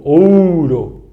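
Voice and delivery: "ouro" with a long, clear O; ouro, O drawn out. Shown as a demonstration. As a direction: say "ouro" stretching the first O. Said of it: "O com som de O".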